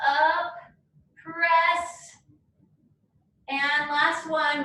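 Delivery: straining through an ab curl; doing sit-ups. Real, not acted. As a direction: voice pushed out mid crunch. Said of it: "my abs are burning".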